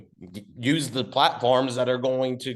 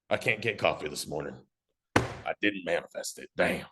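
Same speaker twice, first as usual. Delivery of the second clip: dejected; 5 semitones lower, 4 dB quieter than usual. Acted. Acted failed manifester confessing to partner.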